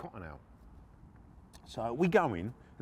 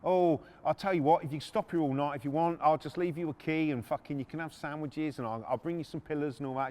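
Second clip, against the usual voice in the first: higher-pitched, cocky mock well-wishing; taunting; 5 semitones higher, 4 dB louder than usual. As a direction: wind them up with fake generosity. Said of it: "He's just being a prick".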